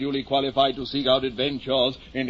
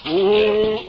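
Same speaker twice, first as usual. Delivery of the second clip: startled oh; 6 semitones higher, 6 dB louder than usual. Acted. Startled cry at horse.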